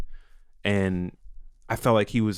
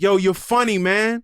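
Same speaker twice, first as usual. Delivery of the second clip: higher-pitched imitated holler; retold yell; 8 semitones higher, 4 dB louder than usual. Man yelling from an open door at a comedian, retold yell. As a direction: holler it like an excited passerby. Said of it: "yelled at me".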